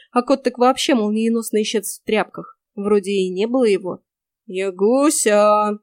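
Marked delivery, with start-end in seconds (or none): 4.5-5.8 deep bass call. Acted. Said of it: "таким густым басом".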